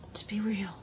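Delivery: soft earnest whisper; hushed closing urge; whispered plea. Real, not acted. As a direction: let it fall to a whisper. Last repetition of the plea.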